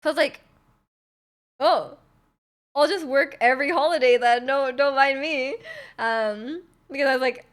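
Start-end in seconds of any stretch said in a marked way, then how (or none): 1.6-5.6 mock-cheerful sarcasm, a bit louder; sarcastic comeback to her manager; sarcastic retort. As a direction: throw it back sarcastically, slowing on the last line.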